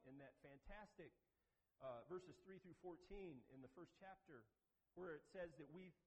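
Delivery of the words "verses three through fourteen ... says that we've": ordinary talk, nothing marked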